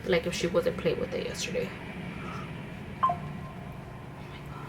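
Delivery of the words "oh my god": slow, breathless, softer "oh my God"; shocked whisper. Real, not acted. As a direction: mouth it in disbelief. Shocked at her own makeup.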